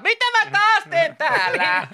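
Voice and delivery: very high, slow mock wail; esitetty hämmästely. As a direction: wail it as if lost on the slide. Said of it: "Sit kuuluu vaan". (teeskennelty kimeä valitus)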